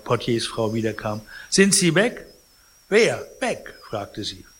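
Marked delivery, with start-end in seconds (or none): 1.5-4.5 anxious exchange. Acted. Anxious patient and evasive concierge.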